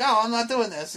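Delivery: high-pitched mock child refusal; imitating a defiant kid. Friend acting out the kid refusing, mock whine. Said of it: "like, the kid's like".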